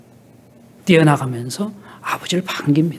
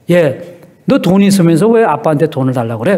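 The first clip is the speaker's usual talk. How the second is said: mild angry scolding; 5 dB louder than usual. Retold or imitated. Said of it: "아빠가 더 화가 나는 거예요".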